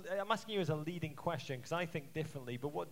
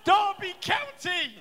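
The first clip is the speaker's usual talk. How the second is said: slow shouted chant, much higher and louder; shouted call; 11 semitones higher, 10 dB louder, slower than usual. Real, not acted. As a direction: drag it out like a terrace chant.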